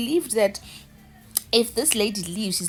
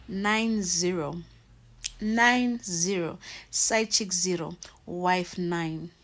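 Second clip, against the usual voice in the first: slow score call; 3 semitones lower, much slower than usual. Real, not acted. Announcing the score.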